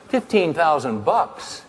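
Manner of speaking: slow, drawn-out disbelief; incredulous. Retold or imitated. Speaker to himself, aghast at the price. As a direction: stretch the sum out in shock.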